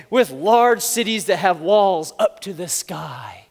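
slow mock-grand proclamation; terrible motivational speaker. Moses describing huge walled cities to his people, slow and ominous. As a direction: draw out the daunting words. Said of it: "he's a terrible motivational speaker".

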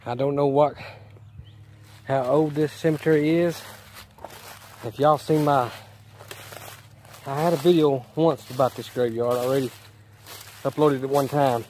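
winded, catching breath between phrases; breathless after the climb. Real, not acted. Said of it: "I'm out of breath a little bit".

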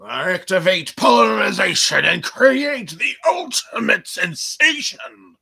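a hammed-up commercial announcer; mock announcer. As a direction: announce it like a cheesy ad. Mock announcer hyping the drink.

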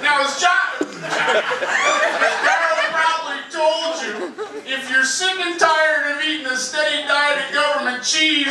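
shouty Matt Foley pitch, high and slow; Matt Foley impression. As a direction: hammer it like an overexcited speaker. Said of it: "Matt Foley from Saturday Night Live".

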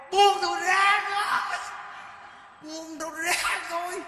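slow, high hammed-up shout to let go; mock brawler. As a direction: play a fake-tough fighter straining. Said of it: "mình nhào vô mình can". (giả giọng kẻ đánh nhau la chậm, cao)

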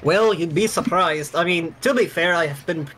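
lightly voiced money schemer. Dolfo explaining to players why promotion was avoided, lightly voiced.

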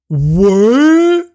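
very high, loud, drawn-out shock; shocked yell. Acted. Vampire asked to erase her memory, shocked yell. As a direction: yelp it in hammed-up disbelief.

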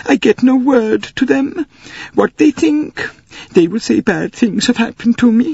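high, upset Swedish lady. Acted. Swedish lady fretting to the passengers, high voiced. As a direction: lift the voice, fretting for her family.

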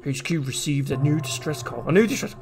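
lightly voiced mission briefing; Hunk. Streamer voicing Hunk's briefing about a distress call, lightly put-on voice. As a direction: read it lightly in character as a game operative. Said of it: "I'm doing voices now".

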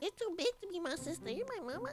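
put-on tiny high, soft baby voice. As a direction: squeak it quickly like a toddler wanting mama. Plays a crying baby seeking mama.

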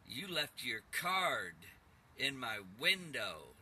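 slow, menacing mock demon voice; demonic caller. Caller threatening the narrator over his card, slow mock demonic voice. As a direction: drag the words out like a lightly voiced evil caller. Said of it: "this guy sounded very demonic, evil".

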